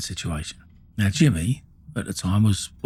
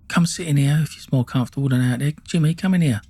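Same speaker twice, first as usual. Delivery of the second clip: higher, sing-song fake welcome; mock Faye voice; 5 semitones higher than usual. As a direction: greet him like an overly sweet host. Faye inviting him, voiced.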